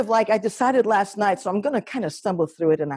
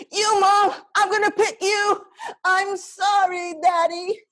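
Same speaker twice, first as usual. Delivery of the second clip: put-on high, tearful little girl; young child voice; 12 semitones higher than usual. Little girl tearfully choosing her mom over her dad, pitched high and crying. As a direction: sob out the choice like a small kid.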